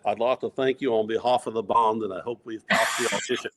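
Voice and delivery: a hint of a Liverpool accent, barely off his own voice; light Scouse accent, tossed off; a musician's accent. Thanking the crowd after passing the audition, faint Liverpool accent. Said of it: "I think that's a musician".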